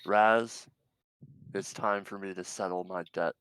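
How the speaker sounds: loud call into a speaker; yelled challenge. Acted. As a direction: shout it up the speaker. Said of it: "and yells in".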